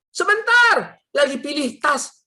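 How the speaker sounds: high, shouted call back; imitated wife. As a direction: holler back as the busy wife. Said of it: "istri saya bilang apa?".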